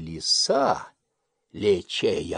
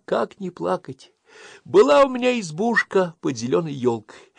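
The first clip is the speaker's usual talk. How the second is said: a touch of crying hare; 11 semitones higher, 7 dB louder than usual. Acted. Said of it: "горько плачет".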